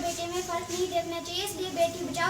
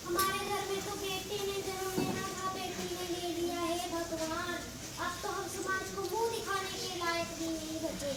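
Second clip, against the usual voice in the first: softer, moaning despair; quiet lament; 2 semitones lower, 6 dB quieter than usual.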